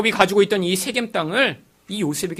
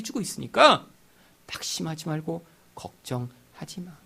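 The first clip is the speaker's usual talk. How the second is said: gentle comfort; 3 semitones higher than usual. Retold or imitated. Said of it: "예수님이 이야기해 주신 거예요".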